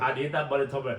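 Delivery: lightly mocked Northern Irish film accent; Brad Pitt. Imitating a film star playing Northern Irish, mock accent. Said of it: "Brad Pitt is in The Devil's Own as a Northern Ireland".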